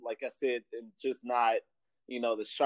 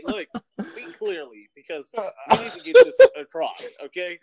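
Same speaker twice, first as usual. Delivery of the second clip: exasperated demand; 9 semitones higher, 10 dB louder than usual. Retold or imitated. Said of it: "I was like".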